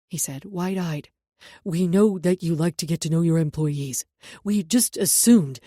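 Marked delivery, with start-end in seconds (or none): 1.6-5.6 flustered guard. A narrator's reading. Guard apologises.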